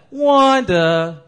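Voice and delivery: loud, drawn-out name; mock scolding call. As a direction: shout it like exasperated classmates. Classmates' scolding catchphrase call.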